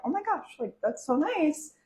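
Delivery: high, gushing oh my gosh; gushing excitement. Retold or imitated. Girlfriend gushing over matching jerseys, high and thrilled. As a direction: squeal it out, touched and thrilled.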